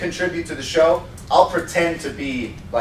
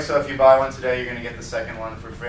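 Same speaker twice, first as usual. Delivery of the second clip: monotone pitch; 5 semitones lower, faster than usual. Retold or imitated. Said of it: "monotone show".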